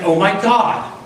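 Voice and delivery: a touch of frantic begging on the phone; imitating a panicked caller. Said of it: "he's saying things like".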